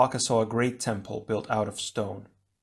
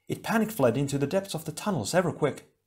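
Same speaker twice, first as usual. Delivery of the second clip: Leiwa voice; 5 semitones higher than usual. Acted.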